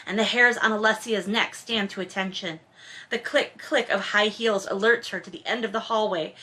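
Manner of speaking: reading the novel aloud, measured and even; story narration. A narrator's reading. Host reads the romance novel to listeners, in narration voice. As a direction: narrate the scene like an audiobook.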